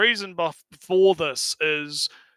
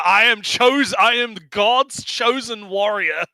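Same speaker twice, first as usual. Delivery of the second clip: mock heroic; 3 semitones higher than usual. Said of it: "her ways of talking".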